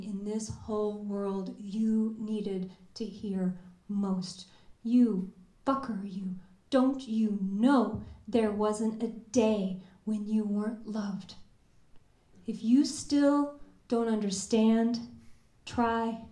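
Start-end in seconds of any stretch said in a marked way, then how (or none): 4.8-11.3 tender. Retold or imitated. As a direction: say it like a blessing. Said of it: "but said tender".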